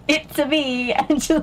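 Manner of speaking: chirpy put-on character voice; Mario. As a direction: do a playful video game catchphrase. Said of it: "Mario impressions".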